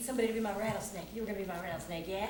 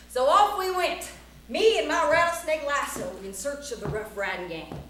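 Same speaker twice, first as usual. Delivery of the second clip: loud, punchy cowboy-tale narration; story narration; 5 semitones higher, 11 dB louder than usual. A narrator's reading. Storyteller recounts setting off to find the gang, theatrical narration. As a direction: tell the tall tale to a crowd of children.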